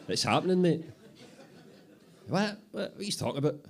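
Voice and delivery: can't believe what he's hearing; disbelieving. Acted. Apprentice reacts in high loud disbelief to Bobby.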